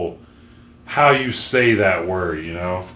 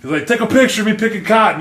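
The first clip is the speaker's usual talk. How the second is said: imitating client; 7 semitones higher, faster than usual. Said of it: "this motherfucker would be like".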